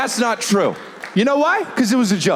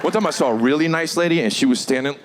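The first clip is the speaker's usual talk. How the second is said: ordinary talk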